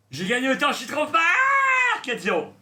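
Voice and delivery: high, loud victory shout; triumphant shout. Real, not acted. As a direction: crow about the win. Triumphant shout after winning.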